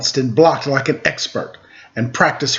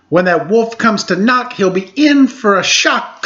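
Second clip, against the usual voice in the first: boastful pig; 6 semitones higher than usual. Acted. Pig boasts about wolf.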